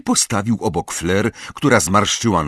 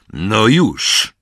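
short, louder snapped order; gruff snarl; 3 semitones higher, 5 dB louder than usual. A narrator's reading. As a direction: snap it impatiently. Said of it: "warknął Moody". (krótkie, niecierpliwe warknięcie)

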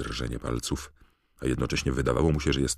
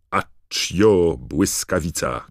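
loud, raised-pitch incantation; shouted spell; 5 semitones higher, 9 dB louder, slower than usual. A narrator's reading. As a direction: cry out a summoning spell with full intent. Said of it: "krzyknął".

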